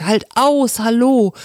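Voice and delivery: high cheering call out; rousing call. Acted. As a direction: cheer him on from the deck. Crew cheers him on.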